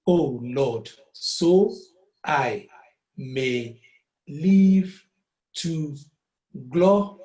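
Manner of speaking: "Oh Lord, so I may live to glorify" each word separated. Shown as a demonstration. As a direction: beat out every syllable. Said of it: "three syllables".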